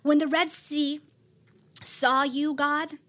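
building awe, some lines whispered, some lines slow; dramatic psalm of praise. Acted. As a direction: proclaim God's mighty works with awe.

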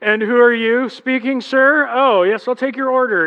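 overly polite mockery; mock politeness. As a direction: kids mocking the dad's orders. Kids mocking dad.

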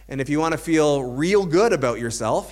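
dry, mock-encouraging aside; sarcastic. Real, not acted. Preacher teasing his church about feeling good, sarcastic. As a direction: tease the congregation with a wink. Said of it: "he said sarcastically".

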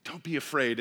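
soft, quiet comforting hush; hushed reassurance. Retold or imitated. The angel soothes the trembling women, quiet and gentle. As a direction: soothe them gently, almost under the breath. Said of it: "they're saying".

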